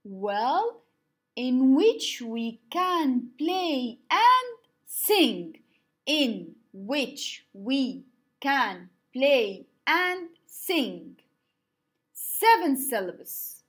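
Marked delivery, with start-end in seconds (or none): 1.4-5.6 slow, each syllable spaced; slow syllable count. Shown as a demonstration. Teacher shows the class, slow syllable-paced line. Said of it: "modeling haiku line". 6.1-11.2 very slow, each syllable spaced; slow syllable count. Shown as a demonstration. Teacher repeats for students, slow syllable-paced line. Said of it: "modeling haiku line".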